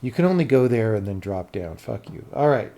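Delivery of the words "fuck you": under the breath; a quick unvoiced jab; whispered. Real, not acted. Muttered aside at the map.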